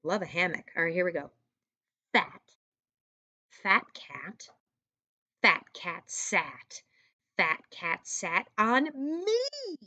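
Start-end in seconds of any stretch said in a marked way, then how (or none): 2.1-9.8 slow, spaced read-aloud, word by word. Shown as a demonstration. Teacher reading the poem slowly to young students. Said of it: "we say it with feeling".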